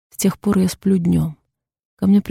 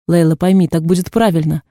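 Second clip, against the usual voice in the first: ordinary delivery, nothing marked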